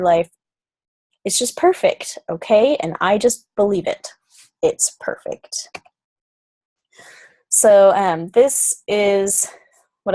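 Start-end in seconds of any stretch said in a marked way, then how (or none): 4.6-5.5 whispered aside. Real, not acted. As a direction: murmur it as a private conviction. Quiet affirming aside to viewers.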